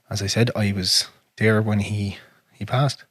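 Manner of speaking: whispering it, voice dropping away; hushed whisper. Real, not acted. Whispering to a friend about being there at his father's death. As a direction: barely voice the words as grief takes over.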